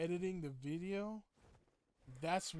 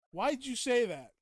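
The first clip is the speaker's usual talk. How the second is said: loud, higher, hammed-up protest; mock indignant outburst; 8 semitones higher, 12 dB louder than usual. Streamer protesting a viewer's remark, mock indignant. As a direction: play offended, loudly.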